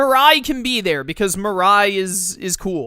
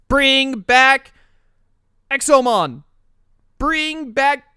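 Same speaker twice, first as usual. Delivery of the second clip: excited pleading; 7 semitones higher, 4 dB louder, much slower than usual. Real, not acted. Begging for a Digimon's return.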